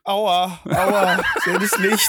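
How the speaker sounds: pained, fading last breath; dying words. Acted. Acting last words in hospice.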